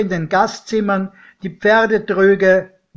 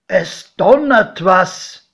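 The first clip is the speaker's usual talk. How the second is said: godfather wondering; 3 semitones higher, 5 dB louder, slower than usual. Acted. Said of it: "meinte mein Pate".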